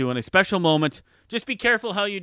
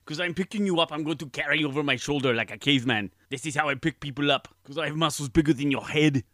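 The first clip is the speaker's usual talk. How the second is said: Arnold Schwarzenegger impression. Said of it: "Please welcome Arnold".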